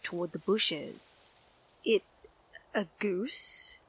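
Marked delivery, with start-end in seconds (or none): 1.8-3.8 frightened breathy whisper. Acted. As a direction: gasp it out scared. Boy whispering in fear.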